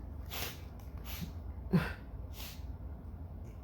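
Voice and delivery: soft, shuddering crying breaths; tearful breaths. A narrator's reading. Mother starts crying, acted tearful breaths. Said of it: "and starts crying".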